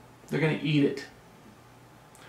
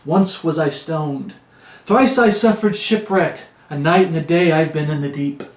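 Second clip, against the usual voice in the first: carnival preaching; 2 semitones higher than usual. Acted. Preacher reading Paul's sufferings as a boast, carnival preaching. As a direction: proclaim it like a showman preacher. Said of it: "I'm getting that carnival preaching going".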